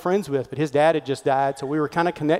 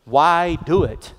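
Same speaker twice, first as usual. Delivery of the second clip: succinct question; 3 dB louder, much slower than usual. Retold or imitated.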